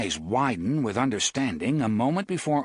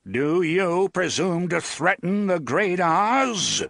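slightly trembling voice; 7 semitones higher, 4 dB louder than usual. A narrator's reading. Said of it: "a slightly trembling voice".

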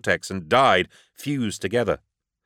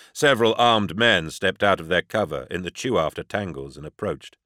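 ordinary delivery, nothing marked

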